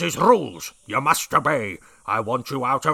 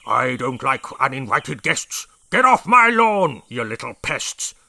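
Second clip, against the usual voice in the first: yelling; 8 dB louder than usual. A narrator's reading. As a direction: yell the rhyme at the pests. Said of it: "he yelled at the termites".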